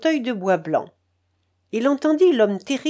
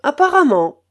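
high, loud, testy retort; irritated; 6 semitones higher, 8 dB louder than usual. Acted. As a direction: bite the word off, annoyed. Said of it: "avec humeur".

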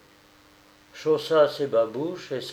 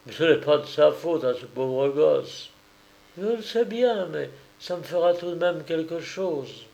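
slightly higher voice, dutiful but reluctant; a hint of a resigned servant; lightly voiced reluctant nursemaid; 5 semitones higher than usual. Nursemaid reluctantly agreeing to care for a stranger's child, lightly voiced reluctance.

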